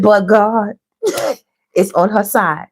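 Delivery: slow words broken by a laugh; giggling out the line; laughing through words. Real, not acted. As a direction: laugh in the middle of it. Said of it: "Look, she laughing".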